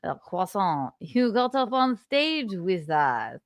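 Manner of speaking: badly faked French winner; attempted French accent. French winner to stage intruder, hesitant fake French accent. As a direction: fumble through a mock French accent. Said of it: "How do you do a French accent?".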